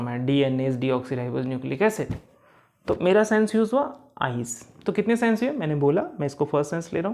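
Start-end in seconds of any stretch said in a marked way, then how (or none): 0.3-2.1 slow, careful line-reading; slow reading aloud. Shown as a demonstration. Teacher showing students how to read a line, slowly. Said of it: "मैं पढ़ रहा हूँ".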